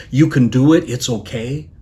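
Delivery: calm reassurance. Acted. Jesus encouraging Peter to step out, calm and reassuring. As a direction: gently reassure someone who doubts. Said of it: "with that calm, reassuring voice".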